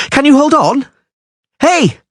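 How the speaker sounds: high, loud anxious call. A narrator's reading. Dandelion anxiously calling down to Geralt, high loud call. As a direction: call down to him, worried.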